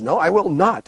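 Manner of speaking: the Queen digging in mid-quarrel; retold shouting refusal. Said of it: "they're screaming at each other".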